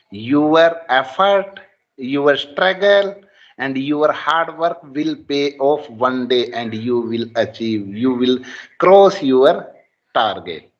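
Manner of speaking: slow, emphatic motivational build; earnest inspirational declamation; rousing. Real, not acted. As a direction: deliver it like a pep talk, word by word. Motivational speech by student.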